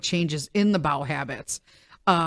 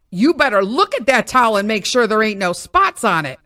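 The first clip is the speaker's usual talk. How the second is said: emphatic; 4 semitones higher, 3 dB louder than usual. Retold or imitated. Emphatic agreement, raised voice.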